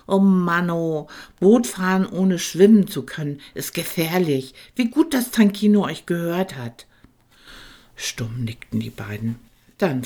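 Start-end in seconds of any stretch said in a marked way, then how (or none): 0.1-6.9 raised little dragon voice, exasperated; a small dragon shaking his head. Acted. Tankino scolds gently. (kleiner Drache, leicht genervt)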